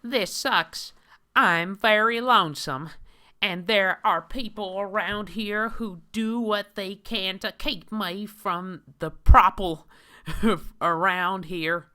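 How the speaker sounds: high, loud mocking nerdy whine; hammed-up high whiny man voice; Christian Weston Chandler. Reads the comic hero's own words.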